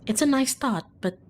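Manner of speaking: soft, ominous narration; story narration. Acted. Streamer narrating lingering dread, soft and quiet. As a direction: let the worry sink in quietly.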